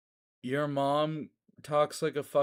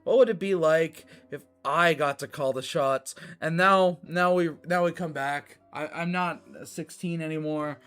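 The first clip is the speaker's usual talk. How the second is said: wrestling heel monologue; 3 semitones higher, 5 dB louder than usual. Acted. Streamer mocking chat in a heel monologue, loud and sneering. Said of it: "every time I pretend to be angry with you guys".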